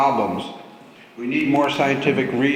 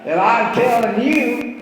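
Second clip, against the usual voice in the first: put-on southern drawl, higher and louder; 7 semitones higher, 4 dB louder than usual. Shown as a demonstration. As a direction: lean into a hammed-up Southern accent. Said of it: "I'm gonna start talking with my southern drawl".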